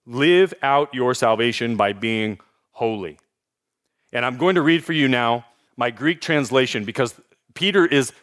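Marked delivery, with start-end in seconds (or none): 0.0-3.2 live out your salvation by being holy spelled out slowly with weight on live; slow each word down and lean on live so the point sinks in; slow emphatic restatement. Shown as a demonstration. Preacher restating his second point to the congregation, slow and weighty. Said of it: "Point number two".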